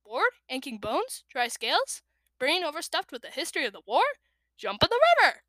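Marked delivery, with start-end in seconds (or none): 4.6-5.4 high, loud bossy shout. Acted. Tsunami bossing the dragonettes, high loud shout. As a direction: shout it like an order. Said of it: "She'd shout".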